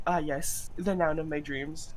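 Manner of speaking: mock wistful. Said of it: "he forgot one word and he just said".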